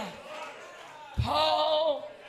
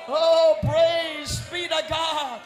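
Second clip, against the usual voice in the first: preaching at full force. Acted. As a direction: preach it out to the congregation.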